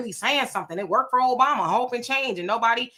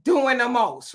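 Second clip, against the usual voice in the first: mocking heckler; 5 semitones higher than usual. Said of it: "And be like".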